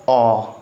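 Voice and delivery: अ said alone, lips not rounded; vowel demo. Shown as a demonstration. Teacher showing lip shape while saying अ. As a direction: show अ with the mouth unrounded. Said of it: "जैसे मैं इन सबको बोल के दिखाता हूँ".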